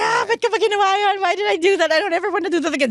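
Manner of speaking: high-pitched, quick laughing wail; laughing panic. Acted. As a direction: squeal it like a giddy rider just off. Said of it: "you're laughing like".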